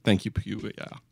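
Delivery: low-pitched mock Italian accent; put-on Italian accent. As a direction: ham up your finest Italian accent. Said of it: "I put on my finest Italian accent".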